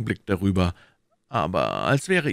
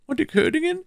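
higher, pressing questions as the Cardinal; Cardinal questioning; 3 dB louder, faster than usual. Acted. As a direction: interrogate his agent coolly. (der Kardinal, verhörend)

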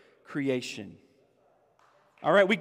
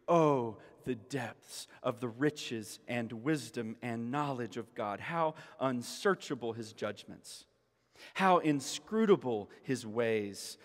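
hushed, much softer reading of the verses; 9 semitones lower, 8 dB quieter than usual. Acted. Preacher walking the church through the verse, hushed. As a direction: read it low and reverent. Rereads doxology softly.

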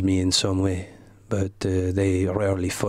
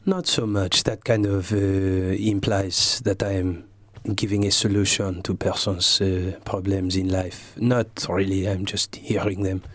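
put-on French accent. Comedian in character answers the host in a French accent. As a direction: speak English like a Frenchman, unhurried. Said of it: "what a beautiful accent".

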